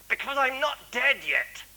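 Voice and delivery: put-on high, earnest child's answer; boy's punchline. Boy answers the doctor earnestly, high child's voice. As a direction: say it as an innocent boy, quite serious.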